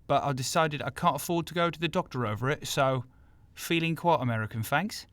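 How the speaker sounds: London speaker faking American; half-hearted American accent. Pretend. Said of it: "South London accent trying to do an American accent".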